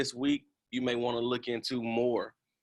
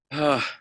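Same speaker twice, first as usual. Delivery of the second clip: weary sigh; 3 semitones higher, 6 dB louder than usual. Pretend. Asks about travel fatigue, then sighs.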